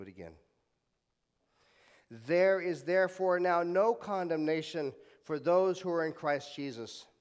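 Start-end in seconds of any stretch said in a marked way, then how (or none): 2.1-7.1 leading a recitation. Shown as a demonstration. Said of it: "repeat after me".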